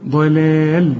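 drawn-out ضلال, light like دلال but with ض; heavy ض, then thin lams in ضلال; light lam after ض. Shown as a demonstration. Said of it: "زي دلال بس دي بالضاد".

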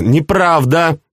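high, drawn-out protest; exclaiming. A narrator's reading. Princess refusing her uncle's excuse, exclaiming. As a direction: contradict in a high voice, stretching the word. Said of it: "воскликнула Флоранс".

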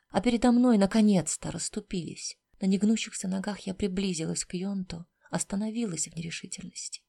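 plain reading voice

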